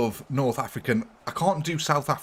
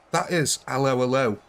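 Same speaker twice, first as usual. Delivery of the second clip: fake French accent. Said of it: "A British man pretending he's French, doing a German accent".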